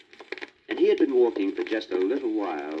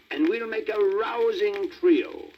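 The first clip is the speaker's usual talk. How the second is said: grand; 11 semitones higher, slower than usual. Acted. Donkey coaxing grandly.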